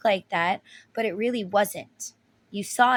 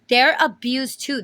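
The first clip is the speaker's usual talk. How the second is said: louder, pressing on THEYRE; emphatic repeat; 3 semitones higher, 5 dB louder than usual. Real, not acted. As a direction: hammer the point home.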